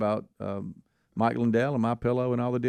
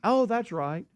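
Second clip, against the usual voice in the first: high, airy mock wife voice; 11 semitones higher, slower than usual. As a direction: squeak it out like the forgetful wife.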